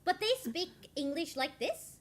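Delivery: English with a sing-song Norwegian tune; slightly exaggerated Norwegian-accented English. Shown as a demonstration. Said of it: "This is literally the Norwegian accent".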